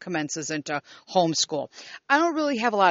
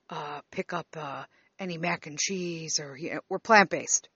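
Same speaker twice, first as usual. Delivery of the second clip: imitating dad, softer, stumbling on every word; hesitant rambling father; 2 semitones lower, 4 dB quieter than usual. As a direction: play the father who can't finish a sentence. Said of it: "he never can, like, finish the fucking sentence".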